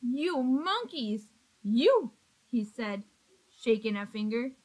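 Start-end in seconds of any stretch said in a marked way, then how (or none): 0.0-2.1 mild anger. Acted. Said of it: "This made the peddler angry".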